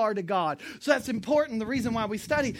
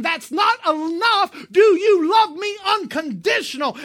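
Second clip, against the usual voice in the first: Jesus demanding; 6 semitones higher, 6 dB louder than usual. Acted. Jesus pressing Peter to love him unconditionally, loud demand. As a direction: push him hard, almost shouting, higher.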